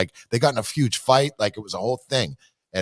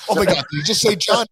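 gasping ghost hunter; 7 semitones higher than usual. Retold or imitated. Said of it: "everybody's like".

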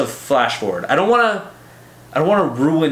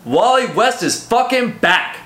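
much higher, slow hyped announcement; excited shout; 10 semitones higher, slower than usual. Real, not acted. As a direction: cheer his return. Hyped fan exclamation.

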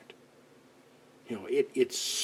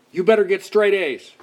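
mock parent demand; 5 semitones higher, 6 dB louder than usual.

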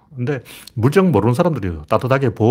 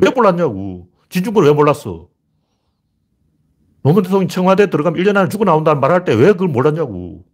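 indignant questioning; 4 semitones higher than usual. Real, not acted. Angrily questions why nobody knew.

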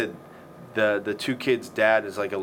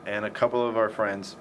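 burping. Real, not acted. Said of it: "Excuse me, keep burping".

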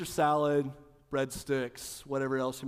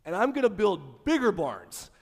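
lightly voiced rich fool; 3 semitones higher, 5 dB louder than usual. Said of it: "He said".

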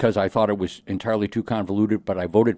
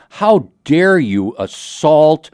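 heated parliamentary debate; 4 dB louder, slower than usual. Pretend. Mock outraged legislator.

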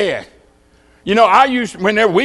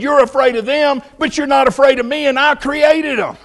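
voice of God; 6 semitones higher than usual. Acted. God's words to Job quoted.

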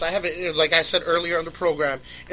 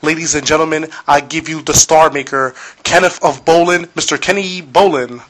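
ringmaster; 9 dB louder than usual. Acted. Host announces guest like showman.

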